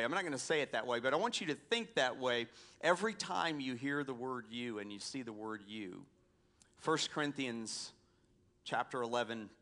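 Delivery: ordinary talk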